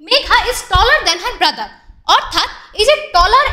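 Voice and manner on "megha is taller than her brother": very slow, word by word example sentence; slow reading aloud. Shown as a demonstration. Teacher reading an example sentence to pupils, very slow. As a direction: spell it out slowly for the class. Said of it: "তারপরের সেন্টেন্সটি পড়ে আমরা বুঝতে পারছি".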